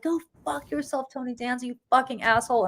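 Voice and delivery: squeaky mock rage at a celebrity; imitating a crazy lady. Yelling at Tony Danza over her dog, high mock rant. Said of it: "I was not normal".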